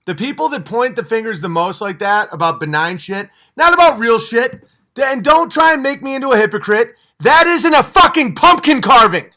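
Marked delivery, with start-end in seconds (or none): 3.6-9.3 builds higher and louder into a real yell; angry rant. Real, not acted. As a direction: push the anger up line by line.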